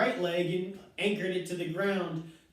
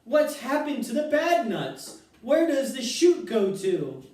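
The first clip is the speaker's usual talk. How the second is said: high, loud panicked questions; frantic shriek; 6 semitones higher, 5 dB louder than usual. A narrator's reading. Mother shrieking at Wonka about the chute, high and loud. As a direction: keep shrieking for answers. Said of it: "shrieked Missus Salt".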